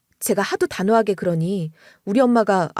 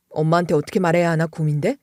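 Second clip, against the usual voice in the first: reassuring husband; 5 semitones lower than usual. Retold or imitated. Husband gently asking his wife about her worry, lower voice. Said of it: "저를 이렇게 안심시켜주는 거예요".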